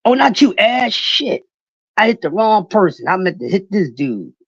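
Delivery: oops, blurt it out; startled apology. Real, not acted. Realizing he banned his niece, loud startled oops.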